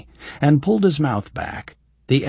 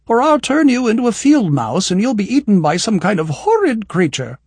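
hammed-up witchy threat, higher and louder; mock threat; 10 semitones higher, 7 dB louder than usual. A narrator's reading. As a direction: threaten him playfully.

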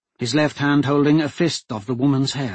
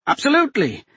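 higher, louder, composed noblewoman; a hostage duchess coolly taking charge; steady duchess voice; 14 semitones higher, 4 dB louder, faster than usual. A narrator's reading. Captive duchess telling the men to make a deal, steady and firm.

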